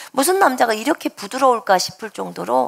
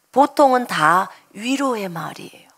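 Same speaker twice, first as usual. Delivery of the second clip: whispered; 2 semitones lower than usual. Real, not acted. Repeats line, whispered.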